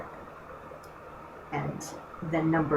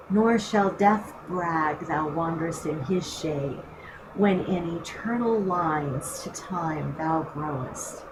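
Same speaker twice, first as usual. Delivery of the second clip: teacher reading a sonnet aloud to the class; poem recital. Acted.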